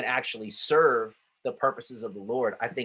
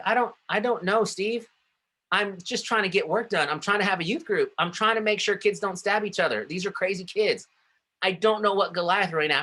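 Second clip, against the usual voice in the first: much higher, flustered and defensive; exasperated protest; 7 semitones higher than usual. Retold or imitated. Youth pastor protesting to pushy boss, exasperated higher. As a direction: splutter out excuses, overwhelmed. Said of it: "And I'm like".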